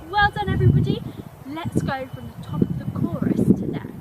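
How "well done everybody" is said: loud praise. Real, not acted. Teacher praising the class loudly.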